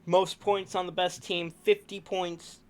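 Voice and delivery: hiccuping while talking; hiccups. Real, not acted. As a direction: talk through the hiccups. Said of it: "Sorry that I'm hiccuping a lot".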